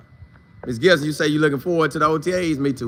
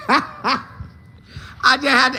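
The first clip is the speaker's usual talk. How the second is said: laughing; 8 semitones higher, much slower than usual. Real, not acted. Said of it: "Is that how women be".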